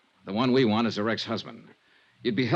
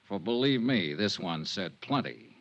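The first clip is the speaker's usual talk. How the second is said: lightly dramatic promo read; radio star signing off the show; episode teaser; 4 semitones higher than usual. Acted. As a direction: tease tomorrow's episode to the listeners.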